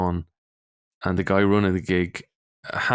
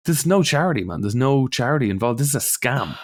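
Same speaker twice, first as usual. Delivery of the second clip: heated retort; 5 semitones higher than usual. Retold or imitated. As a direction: throw it back at them, worked up. Shouting back at angry family.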